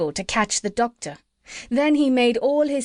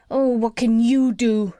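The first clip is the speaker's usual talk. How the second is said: louder whiny, tearful voice; tearful pig; 2 semitones higher, 4 dB louder than usual. A narrator's reading. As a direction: whimper it like a crying piglet. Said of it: "beginning to cry again".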